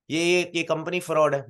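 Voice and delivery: accusing father. Retold or imitated. Father calls company fraud.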